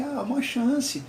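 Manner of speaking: a hint of the sobbing student begging the examiner; mock tearful plea. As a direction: beg for "uma chance" like a crying teen, lightly imitated. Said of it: "Ela começou a chorar".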